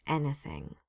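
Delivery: grim confirmation. A narrator's reading. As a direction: shut it down, grim. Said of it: "Susan said grimly".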